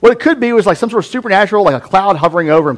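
speculating scholar. Retold or imitated. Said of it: "Other people are like".

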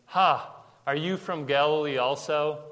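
scoffing "Ha", then a taunting question; insulting. Retold or imitated. Pharisees answering Nicodemus's objection, insulting. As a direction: throw it at him as a put-down. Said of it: "intended to be an insult".

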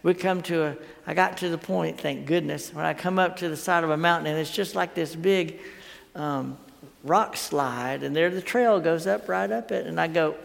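usual speaking voice

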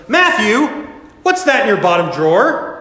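high, loud sudden call of the name; father calling out. Acted. Father discovers hidden comics.

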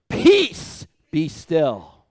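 commanding shout. Shown as a demonstration. Preacher showing how Jesus commanded the storm, shouting. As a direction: rebuke the storm at full force. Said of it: "Not peaceful now".

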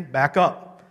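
firm, stern order to step back; stern command. Retold or imitated. Preacher retelling how he warned a standing man, stern. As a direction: say it sternly, no argument. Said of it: "That's what I said very sternly".

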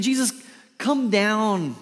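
high, loud call up to a platform; calling down loudly. Shown as a demonstration. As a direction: shout "come down" up to someone above. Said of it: "He's not saying".

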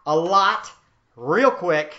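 "real quick" punched out loud; emphatic. Shown as a demonstration. Preacher stressing the sickle's speed, loud and emphatic. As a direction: hit "a lot" and "real quick" hard and loud. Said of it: "especially when it was sharp".

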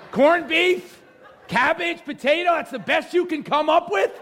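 high, incredulous Irish brogue teasing, mocking the Irish food; playful jab, voice shooting up in fake disbelief. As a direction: pitch way up in mock outrage at the menu.

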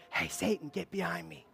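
hushed, low aside; mock whisper. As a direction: drop to a soft confidential undertone. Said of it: "I'm gonna whisper in your ear".

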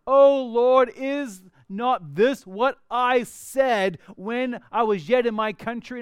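loud, slow, aggrieved cry to God; whining complaint. Acted. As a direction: Jonah pleading in frustration, drawn out.

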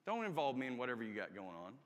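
low, quick grumpy thought. Retold or imitated. Patient in a bad mood thinking at visitors, quick grumble. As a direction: brush them off grumpily, fast and low. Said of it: "I wasn't in a good mood".

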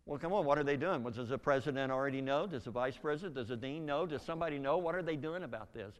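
retold indignant grilling, building; worked up. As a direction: press them hard for answers, getting heated. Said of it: "I'm really getting worked up now".

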